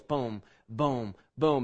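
low, slow mock booms; low booming. Preacher sounding out the seals opening, low booms. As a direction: drop the voice for each boom.

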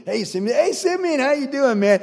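high, loud, back-slapping hello; brothers greeting Simeon. Retold or imitated. Brothers hailing freed Simeon at the feast, high and chummy. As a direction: call out to him like an old pal. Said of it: "Everyone thinks".

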